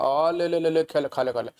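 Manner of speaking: calling a street dog to a biscuit, chirpy; sing-song ले, ले, ले to lure a dog; coaxing a dog. Retold or imitated. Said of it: "कुत्तों को biscuit ऐसे खिलाते हैं".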